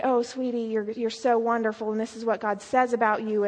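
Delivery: soft, low reassuring tone; gentle encouragement. Retold or imitated. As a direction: lightly imitate a counselor comforting a girl. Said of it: "tell her how beautiful she is and encourage her".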